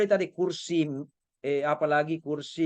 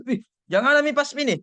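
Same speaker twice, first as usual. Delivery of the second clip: mock excited protest; 6 semitones higher, 5 dB louder than usual. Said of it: "Dan se".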